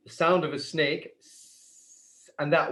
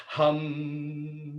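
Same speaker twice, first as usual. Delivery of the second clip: loud hum; 3 dB quieter than usual. Shown as a demonstration. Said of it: "do it as loud as you can".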